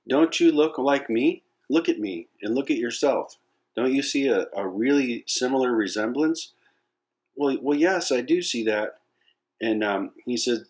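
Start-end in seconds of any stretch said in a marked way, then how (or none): 0.1-6.5 insistent adult lion. Acted. Lion shows cub its reflection. 7.4-9.0 hesitant lion cub. Acted.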